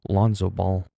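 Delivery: ordinary talk, nothing marked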